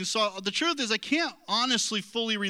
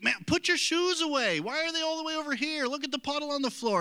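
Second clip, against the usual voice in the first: higher, exasperated scolding of the kids, half-acted; imitating angry dad; 6 semitones higher than usual. Preacher imitating himself scolding his kids, mock irritation. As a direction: play the fed-up dad nagging about shoes. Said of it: "And I get upset like that, and that's how I'll talk, just like that".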